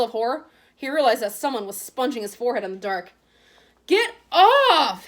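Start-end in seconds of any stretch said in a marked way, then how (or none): 3.9-5.1 high, loud startled yell. A narrator's reading. Harry woken in the dark, yelling in fright. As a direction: shout it in fright. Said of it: "he yelled loudly".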